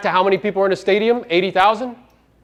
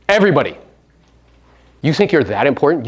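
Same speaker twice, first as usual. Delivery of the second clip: usual speaking voice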